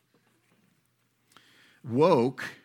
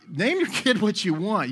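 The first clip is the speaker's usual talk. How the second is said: ordinary talk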